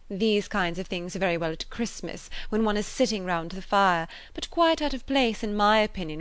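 affected, self-important society lady; lightly voiced proud gossip; haughty lady voice. Mrs Elton continues.

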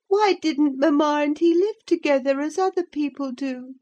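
put-on high childish voice, questioning; a boy asking anxiously; puzzled child. A narrator's reading. Linton questioning his nurse.

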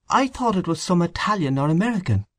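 high-pitched, doubting character voice; dubious. A narrator's reading. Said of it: "asked Mister Fogarty dubiously".

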